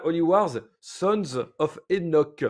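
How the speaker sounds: spelled out slowly, one word at a time; slow and careful, as if for someone typing; slow dictation. Shown as a demonstration. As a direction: dictate it slowly so he can type it. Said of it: "il faut que tu le tapes".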